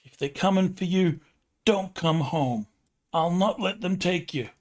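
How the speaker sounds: put-on defiant mom in heavy New York accent. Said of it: "In a super thick New York accent".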